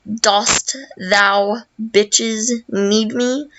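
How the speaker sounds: slow, put-on olde-timey lady voice; drawn out like a haughty storybook princess; mock archaic princess. Love Bee speaks archaic English.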